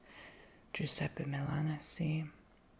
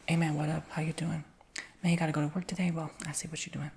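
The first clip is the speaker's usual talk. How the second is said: louder, loose street-style greeting; casual slangy talk; 6 dB louder, faster than usual. Shown as a demonstration. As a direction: toss it off like a buddy on the corner. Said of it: "the version that would be like this".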